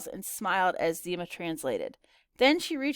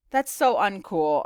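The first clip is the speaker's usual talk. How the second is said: slow, louder, deadpan reversal; drawn-out mock disapproval; joking comeback; 5 dB louder, slower than usual. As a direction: play the catchphrase backwards for a laugh. Joking reversal of her catchphrase.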